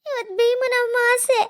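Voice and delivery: tearful; crying. Acted. Daughter-in-law telling her mother-in-law, crying. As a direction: say it with a catch in the throat.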